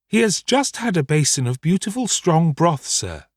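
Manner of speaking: high housekeeper voice, leaning on "broth"; emphasis on broth. A narrator's reading. Housekeeper corrects her master about slops, stressing "broth". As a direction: put strong weight on "broth", then drop on "sir". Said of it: "laying strong emphasis on the last".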